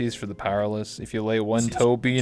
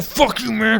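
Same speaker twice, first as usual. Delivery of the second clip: put-on much higher, loud drunken yell; drunk guy yelling; 12 semitones higher, 6 dB louder, slower than usual. A retold drunk guy yelling at him. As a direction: bark it like a belligerent drunk. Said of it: "He's like".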